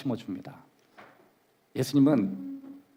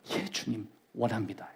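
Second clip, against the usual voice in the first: quiet yes; 5 semitones lower, 9 dB quieter than usual. Shown as a demonstration. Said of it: "지금보다 훨씬 좋아지기를 원하느냐".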